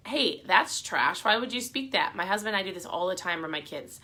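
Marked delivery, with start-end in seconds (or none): 0.1-2.1 calling it out. Shown as a demonstration. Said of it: "call it".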